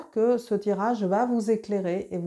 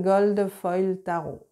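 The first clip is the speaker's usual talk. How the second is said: slow English words in a strong French accent; Gold Foil Tarot said the French way, slowly; slower than usual. Real, not acted. Tarot reader reads an English deck name to viewers, in a French accent. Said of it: "mon accent très Frenchy".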